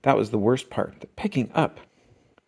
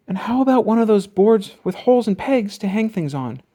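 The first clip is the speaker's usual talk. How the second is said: put-on higher eager girl voice; Sister suggesting; 7 semitones higher than usual. A narrator's reading. Sister suggesting a pegboard to Papa, eager. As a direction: offer the idea. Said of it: "asked Sister".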